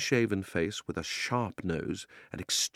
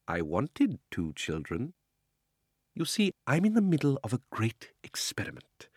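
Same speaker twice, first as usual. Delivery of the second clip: put-on creepy old uncle; 3 semitones higher than usual. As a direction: savour each word like a villain. Uncle Andrew explains experiment.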